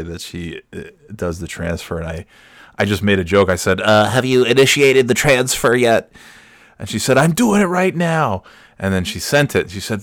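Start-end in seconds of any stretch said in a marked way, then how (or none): 3.8-6.1 a hint of a stiff official asking; mock-formal, each word pressed; formal banker voice. Husband teasing his wife about a payment, mock-formal. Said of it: "I really just wanted to say it in that voice". 7.2-8.4 mock wife voice. Wife answers impatiently.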